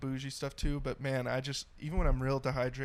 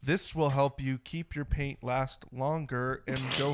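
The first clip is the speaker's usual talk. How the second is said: unenthusiastic ad read. Pretend. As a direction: plod through the sales pitch. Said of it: "lack of enthusiasm in that was just stellar".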